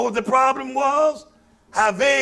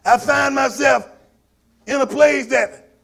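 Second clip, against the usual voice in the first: fiery preaching; 3 semitones higher than usual. Acted. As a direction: preach it, rising and pounding. Preaching at full force.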